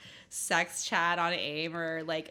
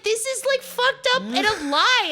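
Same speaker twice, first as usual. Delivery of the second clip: mock indignant yell; 13 semitones higher, 8 dB louder than usual. Retold accusing a lie.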